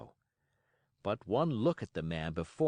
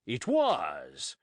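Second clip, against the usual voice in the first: excited cry; 5 dB louder than usual. Acted. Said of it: "cried Silver".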